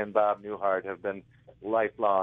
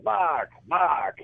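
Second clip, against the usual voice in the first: teasing call; 8 semitones higher, 4 dB louder than usual. Retold or imitated. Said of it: "you go".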